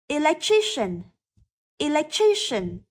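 Electrician with ci said as sh; careful model Electrician, clear sh in the last syllable; sh sound. Shown as a demonstration. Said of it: "từ này được phát âm là âm". (phát âm Electrician với âm sh)

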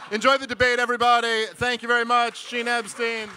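loud, high showman's farewell; big sign-off. Real, not acted. To the debate audience, closing his set, loudly. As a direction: send the crowd off with a bang.

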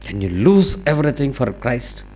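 very slow, soft, weighty English; solemn challenge. Real, not acted. Preacher challenging the congregation, slow and solemn. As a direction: lay each word down slowly.

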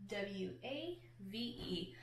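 soft unvoiced whisper, slow; whispered letters. Shown as a demonstration. Teacher whispers the spelling to the class. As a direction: whisper each letter slowly. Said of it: "What letters make each sound?".

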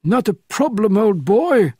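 put-on crisp upper-class English accent, pitched well up; an old Frenchman slipping into an English gentleman's accent; jaunty English accent, old chap style; perfect English accent. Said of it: "said the Frenchman in a perfect English accent".

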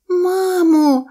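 put-on high, loud child's cry. A narrator's reading. Baby mammoth finds the sleeping elephant, high loud cry. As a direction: call loudly to mum in a high voice. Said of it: "закричало мамонтеня".

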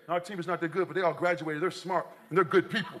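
a lightly mocked goody-goody parent; proud parent. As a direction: play a smug parent being virtuous. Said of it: "There's not one family here".

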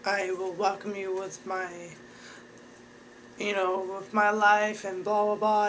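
upbeat, eager intro; cheery mock self-introduction; bubbly greeting. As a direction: sell yourself brightly to the agent. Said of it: "be like".

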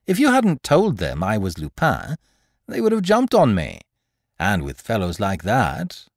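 a hint of a mocking gentleman thief; lightly voiced thief, pleased with himself; lightly voiced Lupin. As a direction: speak with amused confidence.

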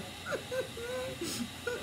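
tiny high, muffled mock sobs; imitated silent crying. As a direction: act out crying almost without sound. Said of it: "I'm crying so silent".

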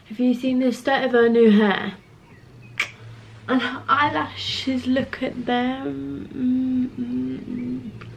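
breathless after climbing stairs; out of breath. Real, not acted. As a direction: talk while catching your breath. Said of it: "I'm so out of breath".

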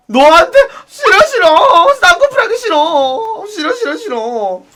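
half-laughing, half-sobbing mock whine; whiny disgust. Wailing no at the pushy club guy. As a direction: whimper no over and over like a spoilt child. Loud whining refusal.

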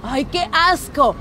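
slow, drawn-out disgust. Real, not acted. Host hearing she loves posing for him, disgusted. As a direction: stretch the words out in real revulsion. Host reacts to nude photo requests.

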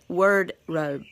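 "wardrobe" said as "word-robe", first part like "word"; coined word pun. Shown as a demonstration. Reading out the takeaway, "wardrobe" punned as "word-robe". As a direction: make the first half of "wardrobe" rhyme with bird. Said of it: "she says wardrobe".

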